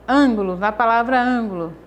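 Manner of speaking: "Ângulo" with the first syllable punched; stressed first syllable. Shown as a demonstration. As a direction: lean hard on the "ân" of "ângulo". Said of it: "O an é a sílaba tônica". ("ângulo" com a primeira sílaba forte)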